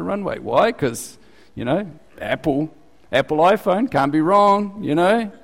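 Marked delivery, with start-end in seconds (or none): 2.2-5.3 higher, sing-song mock certainty; mock blind trust. Preacher mocks drivers' blind trust in Apple, higher mock certainty. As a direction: send up people who trust their phone.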